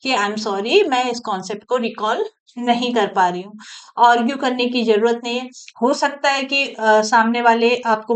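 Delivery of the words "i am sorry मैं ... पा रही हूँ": politely. Shown as a demonstration. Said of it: "नहीं तो बहुत प्यार से".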